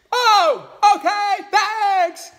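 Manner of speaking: high, loud, squeaky frog voice, stretched out slowly; eager little frog. Acted. New frog mother asking mama hen for advice, squeaky high frog voice. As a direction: pipe it up high like a tiny frog.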